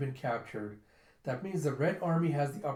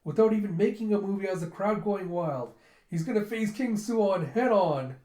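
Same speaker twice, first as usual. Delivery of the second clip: excited commentary; 4 semitones higher, 4 dB louder than usual. Retold or imitated. Commentator building up the duel.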